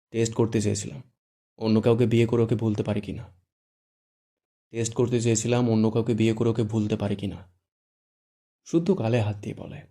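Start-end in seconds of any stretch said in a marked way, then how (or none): 0.1-7.5 a touch lower, serious and measured; grave voice. Acted. Irfan answers his cousin gravely about the test. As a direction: say it gravely, holding back. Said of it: "Irfan গম্ভীর গলায় বলে".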